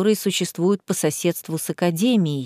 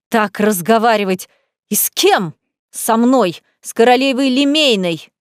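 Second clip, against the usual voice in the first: indignant outrage. Acted. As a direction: build to a furious royal outburst. Enraged queen protests.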